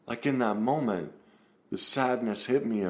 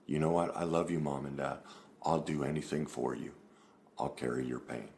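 lower, softer, a gentle voiced child; a hint of a small child, softly devoted; soft child's pledge; 5 semitones lower, 6 dB quieter than usual. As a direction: tenderly promise Mom and Dad, hushed. Voicing child's loving promise to parents.

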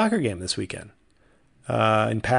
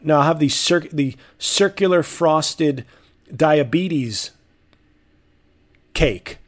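mocking order; 3 semitones higher, 4 dB louder, slower than usual. Mocking descriptive donut names.

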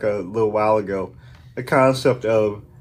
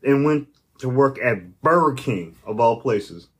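mock disbelief; slower than usual. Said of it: "I'm like".

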